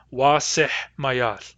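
Wa seh mayath, said very slowly; Wa seh mayath, each word drawn out; Nuu-chah-nulth question. Shown as a demonstration. Teacher asking Grace Wa seh mayath very slowly. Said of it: "might ask in central dialect".

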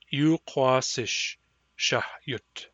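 "shahyutsish" spelled out very slowly; "shahyutsish" stretched slow for learners; slow model word. Shown as a demonstration. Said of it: "you will pronounce them with me".

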